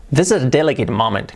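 "This is a delicate moment" said cleanly, English vowels; correct English model. Shown as a demonstration. Teacher modelling the corrected phrase. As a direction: model the full phrase for students. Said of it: "Cambia mucho decir".

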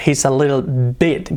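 slow "bit" with the I like an E; slow vowel demo. Shown as a demonstration. Teacher slows down to show "bit". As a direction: say "bit" slowly, I close to E. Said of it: "tiene que decir bit".

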